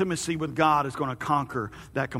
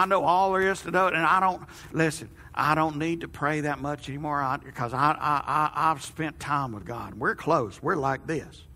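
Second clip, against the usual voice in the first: put-on old man voice. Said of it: "Amy hates my old man voice".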